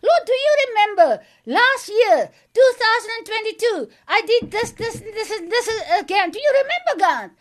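high, fast, eager questions to God; pleading with God to remember last year, rushed and high; eager retold prayer. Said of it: "So I said to the Lord".

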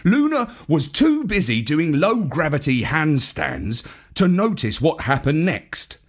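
usual speaking voice

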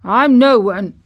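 put-on loud, dry old gardener's retort; understated dry humour, firmly put. A narrator's reading. Old Ben corrects the disbelieving boy, dryly. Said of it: "said old Ben dryly".

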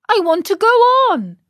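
high, fast, petulant; stubborn insistence. Acted. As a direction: whine it out stubbornly.

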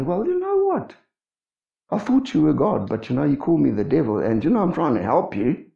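mock-huffy offended disciple, breaking into a laugh. Imagined Peter answers the Lord's rebuke, mock huffy. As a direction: put on a touch of wounded huff. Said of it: "get all huffy and say".

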